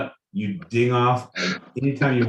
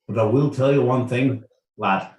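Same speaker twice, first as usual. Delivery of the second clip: put-on Irish accent. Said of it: "with an Irish accent".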